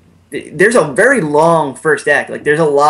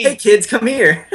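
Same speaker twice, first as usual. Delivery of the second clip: slow, higher creepy lure; lightly voiced creep; creepy stranger voice; 8 semitones higher, slower than usual. Mocking a creepy invitation.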